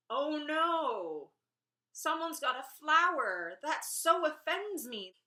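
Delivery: hammed-up scandalized gasp; mock outrage. Mocking an employer offended by her tattoo with fake horror.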